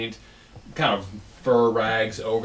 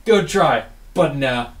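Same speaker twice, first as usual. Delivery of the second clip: lightly voiced, slightly raised dismissal; unimpressed shaman; 3 semitones higher, 4 dB louder than usual. Shaman seeing through the illusion, mildly dismissive. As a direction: brush it off as a sceptical shaman. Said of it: "they're a shaman or a sorcerer".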